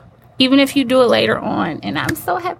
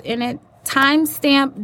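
normal talking voice

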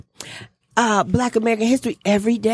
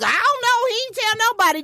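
retold quote; 12 semitones higher than usual. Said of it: "I was like".

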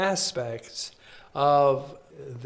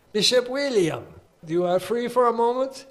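quoting the nuncio; 9 semitones higher, 4 dB louder than usual. Retold or imitated. Retold phone call from nuncio.

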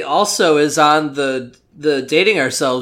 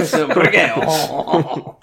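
a touch of mock French accent, savouring each word. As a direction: play a cartoon Frenchman with a hint of a French accent. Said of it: "I think you can do a French accent".

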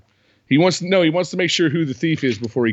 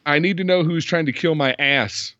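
line pitched up, emphasis landing on "ass"; misplaced stress; 4 semitones higher than usual. Retold or imitated. Host repeating Sam's botched line, stress on "ass". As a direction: put the odd emphasis on "ass". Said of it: "The emphasis on the wrong syllable".

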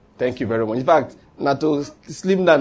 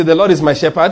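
leading a congregation; 5 dB louder than usual. Shown as a demonstration.

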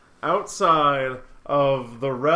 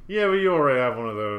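insistent put-on voice; 2 semitones lower, much faster than usual. Repeated in a put-on voice.

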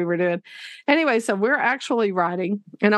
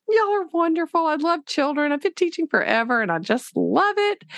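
mock gushing teacher; 6 semitones higher than usual. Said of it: "it's all like".

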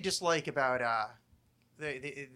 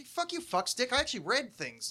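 higher mock angry comeback; mock retort; 8 semitones higher than usual. Answering the smug crowd, mock angry retort. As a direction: snap back like a fed-up reader. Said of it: "it's like".

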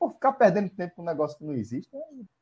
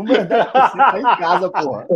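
excited; 9 dB louder than usual. Real, not acted. Gloating about his ten percent.

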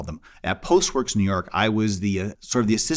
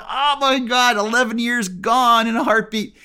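inner dismay; 10 semitones higher, 3 dB louder, slower than usual. Retold or imitated. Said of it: "my brain's still going".

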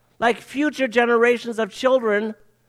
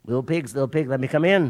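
big bad wolf; 5 semitones lower, faster than usual. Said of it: "the big wolf comes and he says".

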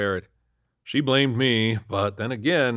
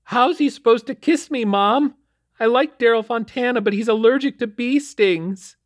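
put-on whining teen; 8 dB louder than usual. A narrator's reading. Daughter Melody whining to dad, high and loud. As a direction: whine it like a sulky thirteen-year-old.

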